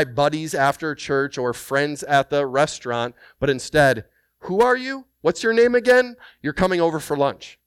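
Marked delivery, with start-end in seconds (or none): 4.4-7.6 eager welcome. Acted. Welcoming a stranger after church.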